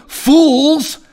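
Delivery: high and very slow, spitting each word; name-calling with force; slow heated rebuke. Shown as a demonstration. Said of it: "Jesus said in the same chapter".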